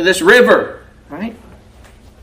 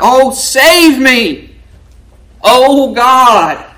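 slow, drawn-out plea, higher and louder; crying out to God; 4 semitones higher, 4 dB louder, much slower than usual. Acted. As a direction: cry out for rescue like a drowning man. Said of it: "He's crying out".

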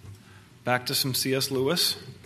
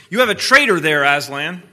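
witch voice; 4 semitones higher, 9 dB louder than usual. A narrator's reading. The witch accuses Aslan.

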